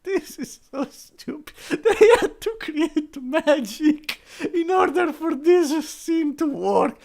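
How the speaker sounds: high, whiny put-on girl voice; mock whiny daughter. Teen girl whining at her dad, high mock voice. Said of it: "she's like".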